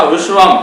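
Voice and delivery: विश्वम said clearly with a closing m; teacher answers his own question by saying विश्वम; model pronunciation. Shown as a demonstration. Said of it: "क्या बोला जाएगा?".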